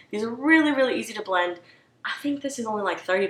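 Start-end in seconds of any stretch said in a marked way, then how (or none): 0.1-1.6 high excited really; excited gush. Real, not acted. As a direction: gush with delight. Enthusing about palette.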